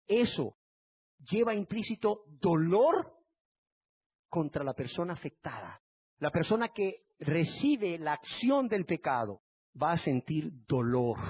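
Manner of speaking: ordinary talk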